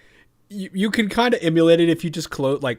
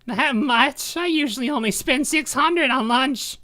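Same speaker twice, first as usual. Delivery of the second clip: nerdy voice; 9 semitones higher, 3 dB louder, slower than usual. Acted. Nerd character reacts to price.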